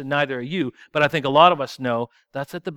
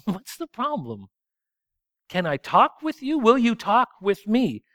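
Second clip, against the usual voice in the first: gentle conversational God; 5 semitones higher than usual. Pretend. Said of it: "conversational God approaches and says".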